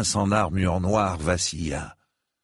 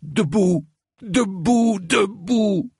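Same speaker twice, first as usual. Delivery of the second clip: high, loud ringing "Debout"; commanding shout; 13 semitones higher, 4 dB louder, slower than usual. A narrator's reading. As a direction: bark the order to rise. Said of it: "qu'il avait ordonné".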